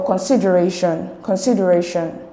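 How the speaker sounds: consideration with weight on the ra syllable; stress on RA. Shown as a demonstration. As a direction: lean on "ray" in consideration. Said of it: "the stress is on ray".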